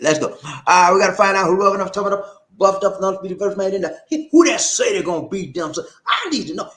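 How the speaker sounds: high, loud rhythmic announcing; hype catchphrase. Pretend. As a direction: belt it out like a hype man. Shouts his show's catchphrase roll call.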